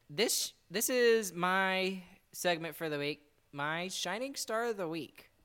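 slow, drawn-out segment reveal; dramatic build-up. Pretend. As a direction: announce it slowly, milking the moment. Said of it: "try and make it more dramatic".

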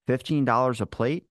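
disbelieving, rising at the end; incredulous question. Retold or imitated. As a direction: echo the price like you can't believe it. Repeating the price in disbelief.

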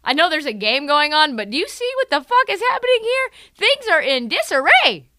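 a player begging for a timeout; hammed-up anxious timeout plea; mock Lowry voice.

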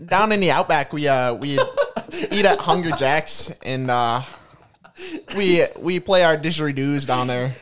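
bad attempt at an Australian accent; hammy Aussie Outback voice. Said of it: "can you do an Australian accent?".

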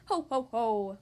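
mock storybook "ho ho ho"; acted laughing. A narrator's reading. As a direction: read out a light, low-key pig laugh. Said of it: "laughed the second pig".

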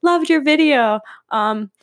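a hint of a sweet old grandmother chiding; lightly voiced grandma, laughing through it; grandmother quote. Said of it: "She was like".

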